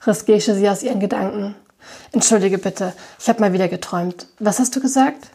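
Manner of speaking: reading a novel aloud with light character voices; story narration. A narrator's reading. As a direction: tell the story to listeners. Liest den Roman vor. (vorgelesene Erzählung)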